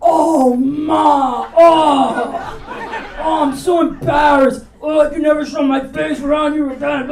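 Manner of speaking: hammed-up embarrassed kid whine; whiny embarrassed son. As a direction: groan like a mortified teen. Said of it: "he's like".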